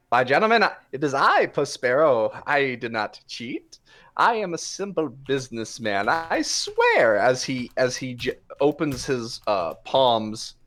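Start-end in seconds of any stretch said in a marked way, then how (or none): 0.1-7.2 protesting innocence. Acted. Puss pleading innocence.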